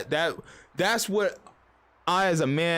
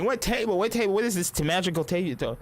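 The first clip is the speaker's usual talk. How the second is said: mock woman's voice; 2 semitones higher than usual. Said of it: "the women be like".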